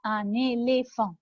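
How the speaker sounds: slow "Un éléphant", both é's said ay; teacher's careful "Un éléphant"; closed é sounds. Shown as a demonstration. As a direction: model "éléphant" syllable by syllable, ay-lay-fahn. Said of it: "فبننطقهم إيه".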